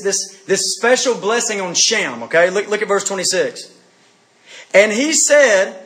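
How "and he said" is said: scripture reading. A narrator's reading. Preacher reading the blessing on Shem to the congregation, scripture reading. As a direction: proclaim the verse in measured phrases. Reads the verse aloud.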